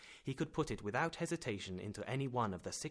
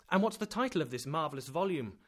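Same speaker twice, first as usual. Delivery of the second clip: fake enthusiasm; 5 semitones higher, 6 dB louder than usual. A narrator's reading. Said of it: "with too eager an enthusiasm to be genuine".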